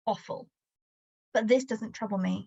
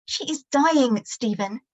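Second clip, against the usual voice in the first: anguished mother; 3 semitones higher than usual. Acted. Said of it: "Mum screams".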